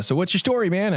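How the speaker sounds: a hint of a Cajun pastor asking; a touch of Cajun, friendly question; Cajun accent. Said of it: "when you were doing his voice, you had to do the accent".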